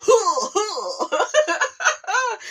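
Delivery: high, laughing mock grunts; imitating a rapper. Pulling up for friends in mock rapper voice, laughing. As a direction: announce yourself like the rapper. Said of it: "pull up like".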